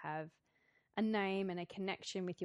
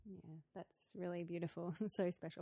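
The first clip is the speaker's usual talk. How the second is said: holding back tears; 5 dB quieter than usual. Real, not acted. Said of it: "I'm trying not to cry".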